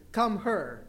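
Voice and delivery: Filipino dialect, "her" for here. Retold or imitated. Owner calling the cat, Filipino dialect. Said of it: "because of their dialect, they always said".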